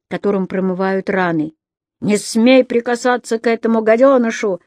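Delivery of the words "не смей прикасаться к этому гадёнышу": barked order. Acted. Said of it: "рявкнул Матис".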